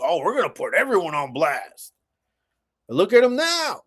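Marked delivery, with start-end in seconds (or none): 0.0-1.9 mocking politician. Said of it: "they were talking tough".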